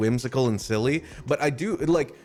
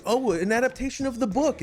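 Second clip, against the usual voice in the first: mock naive viewer; 11 semitones higher than usual.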